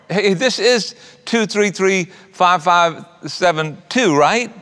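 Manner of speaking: lightly voiced older lady reading out "two three three five five seven two"; a hint of a sweet old lady checking a phone number; kind lady checking the number. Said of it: "And the lady said".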